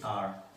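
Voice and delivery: आर begun straight on the vowel; silent H. Shown as a demonstration. Teacher shows the H is silent, आर starting on a vowel. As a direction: say आर with no H sound. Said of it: "इसमें एच silent रहेगा".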